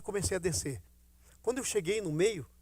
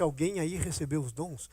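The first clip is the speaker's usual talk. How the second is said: quiet retelling; 6 semitones lower, 6 dB quieter than usual. Retold or imitated. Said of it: "Quando eu disse".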